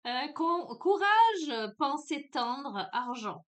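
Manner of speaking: courage called out loud and high; eager exclaim. Acted. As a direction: announce the word with a burst of energy. Reading out card words eagerly.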